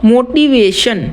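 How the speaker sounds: मोटिवेशन slowed into clear beats, मो-टी-वे-शन; syllable by syllable. Shown as a demonstration. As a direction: measure out मोटिवेशन one syllable at a time. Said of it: "इसको तोड़ के देखना है". (मोटिवेशन धीरे, हर syllable अलग)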